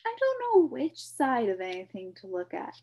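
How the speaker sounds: put-on high, loud, frustrated boy; protest, confused. A narrator's reading. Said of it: "protested Milo".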